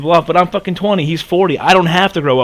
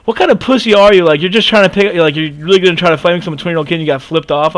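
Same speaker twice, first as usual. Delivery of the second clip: louder retold angry yelling at the other driver; retold angry shout; 2 semitones higher, 4 dB louder, faster than usual. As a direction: yell it at him again in the retelling. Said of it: "and I'm just like".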